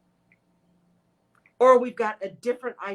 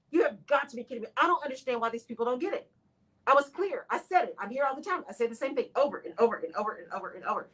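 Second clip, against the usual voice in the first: frustrated leader; 4 dB quieter, faster than usual. Retold or imitated. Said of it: "When you're a leader".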